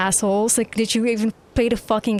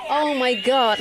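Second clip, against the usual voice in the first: laughing shout; 4 semitones higher, slower than usual. Real, not acted.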